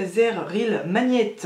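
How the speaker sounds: English brand name said slowly in a heavy French accent; Frenchy accent. Real, not acted. Vlogger naming the mascara to viewers, slow heavy French accent. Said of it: "avec mon accent très très Frenchy".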